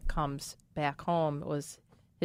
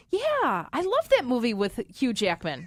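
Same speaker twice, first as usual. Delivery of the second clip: mom; 4 semitones higher than usual. Retold or imitated. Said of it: "She's like".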